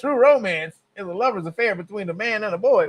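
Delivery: reading it aloud through laughter; can't keep a straight face reading it; laughing while rereading. Real, not acted. Streamer rereads the odd quote, laughing.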